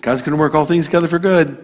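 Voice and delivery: quick, glib reassurance; cliched comfort. Retold or imitated. A preacher mocking a glib comforter with a quick, breezy cliche. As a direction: rattle off the stock comfort line. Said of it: "I'm gonna come alongside and say".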